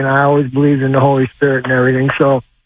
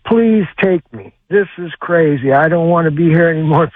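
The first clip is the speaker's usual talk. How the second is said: pleading. Retold or imitated. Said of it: "I, I says".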